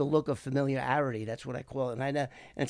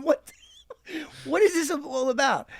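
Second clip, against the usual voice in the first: high, louder imitation of a confused agent; mock bafflement; 11 semitones higher, 4 dB louder than usual. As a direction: squawk it as the one man left out. Baffled Agent Bob, acted out laughingly.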